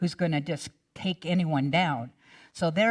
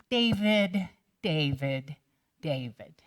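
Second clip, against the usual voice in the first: fading to a sigh; weary sighing of his name. Acted. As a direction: sigh the name like a worried father. Saul sadly sighing David's name.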